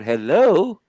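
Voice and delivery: mum's phone voice. Retold or imitated. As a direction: answer the phone in your best telephone voice. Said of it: "when she picks up the phone".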